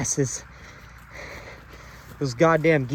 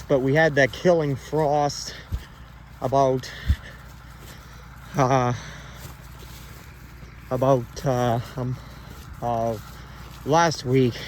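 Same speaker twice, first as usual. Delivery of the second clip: out of breath; 4 dB quieter, slower than usual. Real, not acted. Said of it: "I'm out of breath from running".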